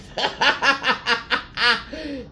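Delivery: high bursting laugh; real amused laughter. Real, not acted. Laughing at the reading to her viewers.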